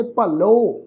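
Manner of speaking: ਭਲੋ as "pa-lo", long final "o"; ਭਲੋ with short first vowel, drawn-out "o"; shown pronunciation. Shown as a demonstration. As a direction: draw out the "o" ending of ਭਲੋ. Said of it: "ਪਾਠ ਉਚਾਰਨ ਕਰਾਂਗੇ".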